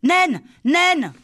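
high, loud panicked calling; terrified child calling out twice; frightened call. Acted. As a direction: cry for help in fright. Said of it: "Lali appela, en grande frayeur".

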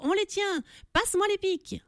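put-on high excited shouting kids; little angels yelling about bulls. A narrator's reading. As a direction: cry it out like rowdy cherubs chasing bulls. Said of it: "en criant".

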